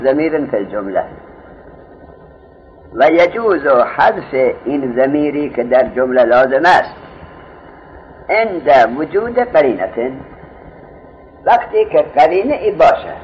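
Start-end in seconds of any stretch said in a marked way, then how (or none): 2.9-4.5 slow, loud recitation of the Arabic text; reciting the text. Shown as a demonstration. Teacher reading the Arabic book line aloud to students, slow and loud. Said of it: "حالا عبارت گوش بدید". 8.3-10.1 reciting the text. Shown as a demonstration. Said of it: "حالا عبارت گوش بدید".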